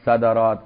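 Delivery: صدرات as "sadarāt", short a in the first syllables; a after d. Shown as a demonstration. Teacher lists valid plurals, صدرات said "sadarāt". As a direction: say صدرات with open a vowels before the long ending. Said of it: "وفتحها".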